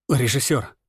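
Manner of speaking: hoarse call. A narrator's reading. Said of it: "позвал хрипло".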